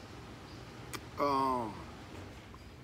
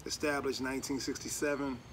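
talking through fingers; muffled behind hand; hand over mouth. Real, not acted. Seen 1: Hand covers chin and lips throughout; hands lowered before and after.

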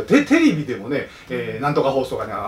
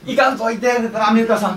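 higher, pleading voice; 9 semitones higher than usual. Retold or imitated. Politicians plead with America to stay, higher and pleading. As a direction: beg them not to go.

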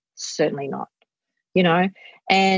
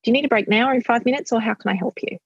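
put-on calm parent defusing a frustrated kid; gentle check-in; 3 semitones higher, faster than usual. Shown as a demonstration. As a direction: offer the choice gently, no pressure. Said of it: "if you just go".

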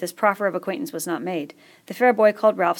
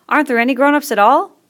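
high, louder anxious plea; worried question; 7 semitones higher, 10 dB louder than usual. A narrator's reading. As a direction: ask hoping it isn't true. Fat boy anxious question.

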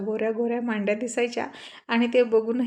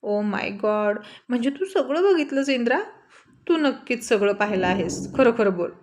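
shouting. Acted. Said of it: "ओरडून म्हणाले".

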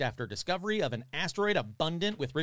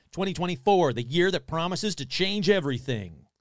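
trailer voice; 4 semitones higher, 6 dB louder than usual. Pretend. Movie trailer read.

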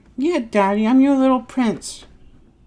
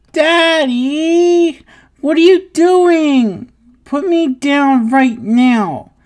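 put-on higher and louder startled toddler protest; shocked protest; 5 semitones higher, 4 dB louder, slower than usual. Toddler protesting as daddy picks him up, startled. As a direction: squeal in alarm at being lifted. Picked up against his will.

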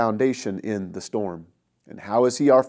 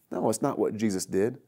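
ordinary delivery

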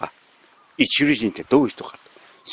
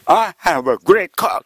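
put-on slow Japanese-accented English, higher, rising at the end; 6 semitones higher, much slower than usual. Prime minister repeating to stunned leaders in slow, higher Japanese-accented English. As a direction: repeat it slowly and proudly in katakana English, pitch up. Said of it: "みんな動揺".

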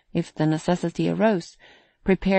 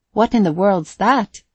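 astonished exclamation; 3 semitones higher, 6 dB louder than usual. Acted. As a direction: gasp it out in amazement. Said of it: "he exclaimed".

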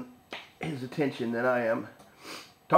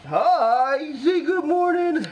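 much higher sing-song greeting; pet voice; 14 semitones higher, 4 dB louder, much slower than usual. Real, not acted. Owner greeting her puppy Lucas in a very high pet voice.

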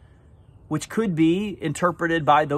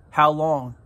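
humanity's cry. Retold or imitated. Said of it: "Humanity's cry is".

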